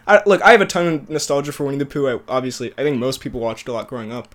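short of breath, words fading; talking while out of breath. Real, not acted. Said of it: "sorry, I'm out of breath".

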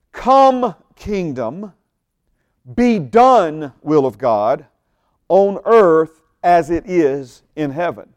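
verb-first decree, slow, stress on the verbs; emphatic command. Shown as a demonstration. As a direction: put your foot down on "Come" and "be done". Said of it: "putting your foot down when you say it".

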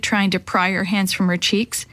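ordinary delivery

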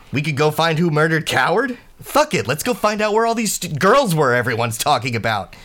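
very high, loud, wild yelling; furious shrieking rant. Acted. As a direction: scream it, out of control. New ranting at Kai.

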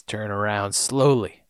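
low, soft Southern voice; a lightly done Southern order; Southern accent. Retold or imitated. Unseen gunman holding up Jin, Southern accent. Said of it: "it's a southern voice that says".

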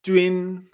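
"Jun" as jüin, level; first tone. Shown as a demonstration. Teacher isolating the syllable for learners, level "Jun" as jüin. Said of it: "Esa entonación".

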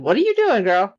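shocked, high-voiced question; high shocked cry. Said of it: "Edie was doing exactly what I was doing".

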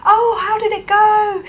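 bright eager parent asking; hopeful parents. Retold or imitated. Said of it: "my parents were like".

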